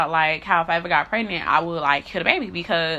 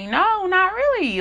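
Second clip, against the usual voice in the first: retold flat refusal; 11 semitones higher, slower than usual. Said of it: "And I was like".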